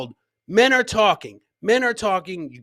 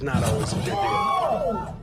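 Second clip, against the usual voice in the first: mock shout; 4 semitones higher, slower than usual. Shouted tagline before clip.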